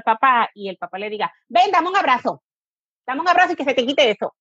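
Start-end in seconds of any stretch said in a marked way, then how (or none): 1.5-4.3 higher, brusque, hurried hug order; impatient dad ordering a hug, higher and fast; impatient demand. Shown as a demonstration. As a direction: demand the hug to make the tantrum stop. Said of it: "No es lo mismo".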